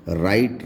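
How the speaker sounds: राइट with the W left silent. Shown as a demonstration. Teacher showing learners that W goes silent before R, silent W. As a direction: say राइट starting on a plain R, no W sound. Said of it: "तो डब्ल्यू silent हो जाएगा".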